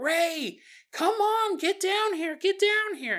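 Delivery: mock urgent calling. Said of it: "He's like".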